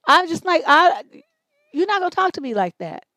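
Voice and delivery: loud, high mock confrontation; mock shout. Host acting out telling off a rude man, shouting. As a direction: shout it like squaring up to a stranger.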